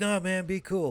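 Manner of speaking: begging, appeasing, pleading tone. Retelling a guy pleading with an attacker who has powers: imitating someone pleading. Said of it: "the guy's pleading like".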